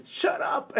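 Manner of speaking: whispered, to yourself; a silent scream in your head; inner whisper. Retold or imitated. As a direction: hiss it under your breath. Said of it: "inside myself".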